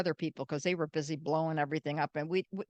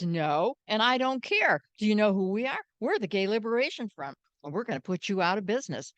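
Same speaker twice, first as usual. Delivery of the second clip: louder, higher defiant comeback; defiant retort; 3 semitones higher, 3 dB louder than usual. Retold or imitated. Martha Shelley facing down the gangsters, defiant retort. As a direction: fire it back at the mobsters.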